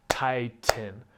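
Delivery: tighten split into two clapped beats; clapped syllables. Shown as a demonstration. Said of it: "you clap for each sound".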